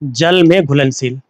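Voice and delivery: slow, stretched-out term; teacher slowly dictating a term; slow dictation. Shown as a demonstration. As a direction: say the term slowly so learners can follow. Teacher repeats Hindi term for learners.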